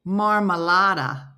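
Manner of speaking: slow, lightly Spanish-accented marmalada; Spanish accent, drawn out; Spanish word. Shown as a demonstration. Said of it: "the Spanish word for jam".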